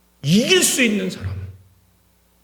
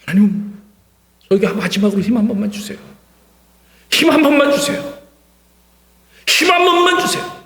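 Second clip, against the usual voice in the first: desperate plea. Acted. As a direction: beg harder every time you repeat the request. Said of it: "부르짖었다고 표현되어 있는데".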